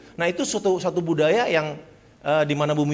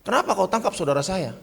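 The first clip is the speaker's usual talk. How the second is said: high, louder indignant Papuan villager; 9 semitones higher, 4 dB louder than usual. Retold or imitated. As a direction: defend your brother outraged. Villagers defend thief. (warga kampung membela saudaranya dengan marah)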